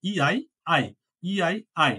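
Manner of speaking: ইআই letters sounded as one আই; German ei diphthong. Shown as a demonstration. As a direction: spell ইআই, then say আই like English "eye". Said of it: "উচ্চারণ করবো কি?".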